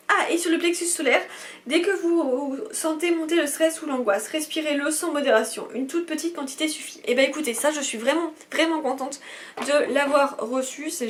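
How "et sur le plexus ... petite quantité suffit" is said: animated leaflet reading; product instructions read-out. Acted. Vlogger reading balm directions to viewers, promotional read-out. Reads usage instructions aloud.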